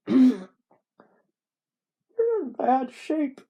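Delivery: high, slow, loud put-on voice; wrong character voice. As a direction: overshoot the character, loud and drawn out. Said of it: "That's not what he sounds like".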